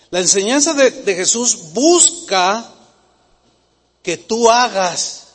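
"que tú hagas" lento y marcado, hagas remarcado; énfasis lento en HAGAS. Shown as a demonstration. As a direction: subraya despacio cada palabra. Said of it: "lo voy a enfatizar más". (enseñanza lenta y enfática en "hagas")

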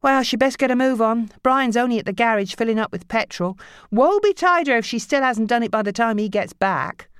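a stressed mother; impatient mother. Acted. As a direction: warn about the daughter's lateness. Nancy voiced.

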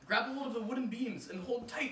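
high, loud urgent order; shout. Acted. Anansi to family in the ceiling, shouting. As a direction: hold on!. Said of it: "he shouted".

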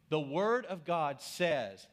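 very slow, firm proclamation; slow declaration. Shown as a demonstration. Preacher shows the congregation how to declare scripture, slow and firm. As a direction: declare it out loud, slowly. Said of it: "out loud with your voice".

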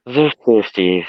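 slow, wistful and far away; dreamy distant voice. Acted. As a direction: drift off lost in memory. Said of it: "said Marty in a dreamy voice".

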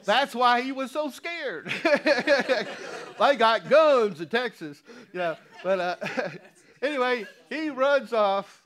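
loud, laughing through the words; can't stop laughing while telling it. Real, not acted. Preacher laughs at his own Texas joke to the congregation, laughing.

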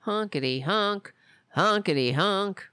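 goofy clown horn honks; silly clown. Pretend.

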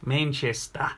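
Manchester in an Australian accent; put-on Aussie pronunciation. Shown as a demonstration. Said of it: "Please say it in Australian".

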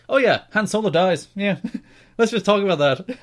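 high, loud, laughing blurt of the spoiler; excited blurt. Retold or imitated. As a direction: gush it out with a laugh. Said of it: "something as big as".

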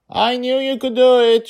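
high, loud encouraging call; supportive shout. Acted. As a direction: cheer him on with a shout. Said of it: "she shouted supportively at him".

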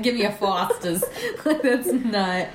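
put-on Boston accent again, laughing. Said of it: "not an Australian accent".

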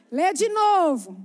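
insistent command. Acted. Acted command to reread.

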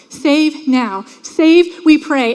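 voicing the crowd's plea, rising on the second Save; a mild mock cry of save, we pray; crying out for help. Preacher voicing the desperate crowd, mild cry for help. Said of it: "It was a cry for help".

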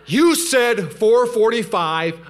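loud, slow, drawn-out accusation; retold yell. Husband confronting wife over the broken promise, acted yell. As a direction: raise the pitch and pound out each word slowly. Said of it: "I think I've yelled".

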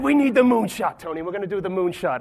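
hammed-up American enthusiasm; enthusiastic American accent. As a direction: pitch it big in a mock American accent. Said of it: "he's an enthusiastic American guy".

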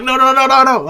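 high, loud string of refusals; exaggerated alarmed yelp; mock panic. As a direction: frantically try to stop it, hammed-up. Retold panic at seeing a spoiler.

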